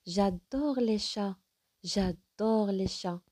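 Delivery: slow exclamation, drawn out on "adore"; exclamative. Shown as a demonstration. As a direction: stretch "adore" with strong feeling. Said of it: "Elle exprime un sentiment fort".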